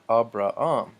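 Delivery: "Abraham" said a-bra-AM, no H, weight on the end; exaggerated final stress. Shown as a demonstration. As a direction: lean hard on the AM of "Abraham". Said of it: "putting so much emphasis".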